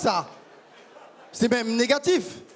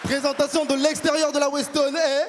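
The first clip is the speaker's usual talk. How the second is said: proud Congolese man. Acted. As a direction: play a pompous Congolese gent musing on love. Congolese persona on stage.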